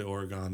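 Oregon said as OR-uh-gahn; Oregon with a full last vowel; wrong pronunciation. Shown as a demonstration. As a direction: end Oregon on "gone". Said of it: "That's not the way to do it".

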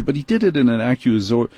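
normal talking voice

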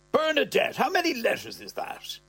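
put-on high, worried old man's voice; nervous old man. Old man suddenly scared of the needle: high worried voice. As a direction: count the letters in a panic.

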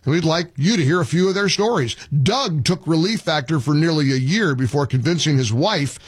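brisk upbeat commercial read; radio host sponsor read; live ad read. Acted. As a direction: sell it warmly to listeners. Host reads Relief Factor ad.

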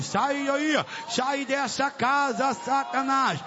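insistent, chant-like repeated expulsion commands; exorcising command. Real, not acted. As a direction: drive the demon out in relentless high bursts. (ordem de expulsão, insistente e cadenciada)

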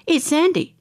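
put-on high, excited child's voice; thrilled little girl spotting a star. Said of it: "I was just going".

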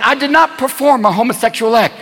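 emphatic preacher's denial; mock denial. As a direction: deny it deliberately, word by word. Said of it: "And then he'll deny it".

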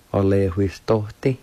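"or lehuistote" said slowly as one word; careful teacher's repeat of "or lehuistote"; whole-word pronunciation demo. Shown as a demonstration. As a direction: model "or lehuistote" slowly without breaks. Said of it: "I'll pronounce it one more time".

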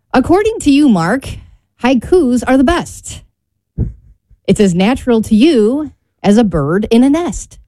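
measured, lilting rhyme recital; poem reading. Acted. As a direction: read out your homemade verse line by line. Reads own rhyming poem.

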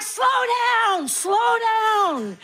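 high, frantic calling out; mock frantic parent. Parent chasing naked kids after the bath, high frantic calls. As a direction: yell after the running kids, pitched high. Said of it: "you're like".

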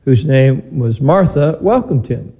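measured, solemn proclamation of scripture; gospel reading. Real, not acted. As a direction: read it out slowly to the congregation.

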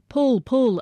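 high, loud urging. A narrator's reading. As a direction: push them to pull harder. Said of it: "another urged".

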